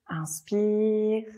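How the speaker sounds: long, drawn-out breathing cue; consigne d'inspiration. Real, not acted. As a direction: stretch it out to lead a slow in-breath. Breathing cue in yoga class. (inspiration guidée, voix étirée)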